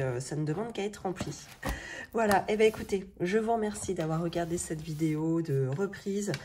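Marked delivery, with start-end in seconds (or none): 2.1-6.3 morning voice. Real, not acted. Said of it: "avec ma voix du matin".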